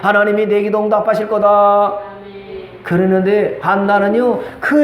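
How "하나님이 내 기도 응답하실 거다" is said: lightly acted apologetic priest; even, slightly lowered reassurance from a priest; 엘리 제사장. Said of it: "미안했던 엘리 제사장이". (미안한 듯 차분히 축복하는 제사장)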